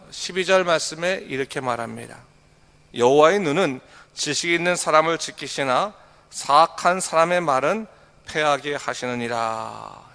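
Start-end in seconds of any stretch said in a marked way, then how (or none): 2.9-10.1 solemn verse reading, slowing at the end; scripture reading. Acted. Pastor reading verse twelve to the church, solemn and slowing. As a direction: intone the verse, stretching the last words.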